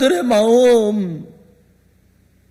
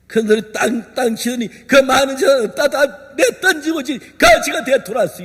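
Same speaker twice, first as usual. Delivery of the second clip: ordinary delivery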